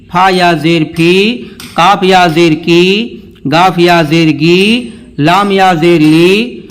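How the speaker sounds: chant-like drill, final ee held in "جی", "دی", "ہی"; teacher's recitation with "می" and "نی" drawn out; drawn-out vowel. Shown as a demonstration. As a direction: stretch the last syllable, as in "سی" and "لی", to a long ee. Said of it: "کھینچ کے بھی پڑھا جائے گا".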